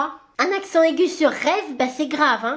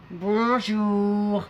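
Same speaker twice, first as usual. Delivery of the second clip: put-on sweet child greeting; 9 semitones lower, 4 dB quieter than usual. Child trick-or-treating greeting.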